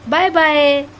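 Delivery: sing-song, stretched farewell; modelling bye-bye. Shown as a demonstration. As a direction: show a baby how to say bye.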